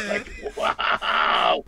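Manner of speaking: high laughing exclamation. Real, not acted. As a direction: burst out laughing in disbelief. Reacting to Lorraine's line.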